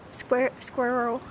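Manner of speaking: SQUIRREL said slowly, with a false start; trying out SQUIRREL. Shown as a demonstration. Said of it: "You don't say squirrel".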